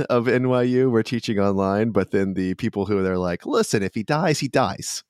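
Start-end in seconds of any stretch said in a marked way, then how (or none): 3.5-5.0 put-on light, offhand Brooklyn accent. NYU administrator shrugging off a professor's death, light Brooklyn accent. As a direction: toss it off like a careless Brooklyn administrator. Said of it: "my vaguely Brooklyn accent for that".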